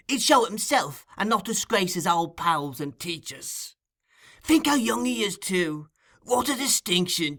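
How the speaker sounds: Fagin's voice. Acted. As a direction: purr it like a sly old receiver of stolen goods. Fagin consoling Charlie.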